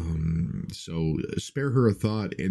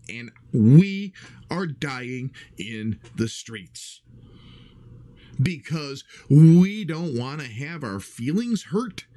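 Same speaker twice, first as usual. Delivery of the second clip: slow, louder, hammering each word; worked up; 4 semitones higher, 4 dB louder, slower than usual. Real, not acted. Host pleading with his audience, slow and louder. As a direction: lean on it hard and slow. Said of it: "get all worked up like this".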